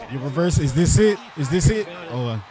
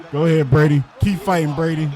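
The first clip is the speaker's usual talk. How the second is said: louder, pushing him on; loud cheer; 4 dB louder than usual. Real, not acted. Cheering the wrestler on.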